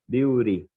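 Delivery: "beauty" said as biw-ri with a tapped R. Shown as a demonstration. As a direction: repeat "beauty" with the R sound. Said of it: "com R". ("beauty" pronunciado com R)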